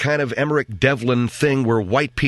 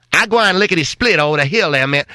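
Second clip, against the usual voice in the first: higher, hammed-up old Black dialect; stagecoach driver's dialect; 4 semitones higher, 4 dB louder than usual. Stagecoach driver quoted by Dickens, mock dialect. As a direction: caricature an old dialect with "gwine". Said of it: "he quotes a black stagecoach driver".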